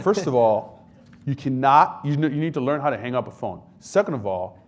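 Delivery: loud, laughing mock scolding; scolding mom. Mother scolding her soldier son over the phone, loud mock scolding. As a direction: tick off your son point by point. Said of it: "She's like".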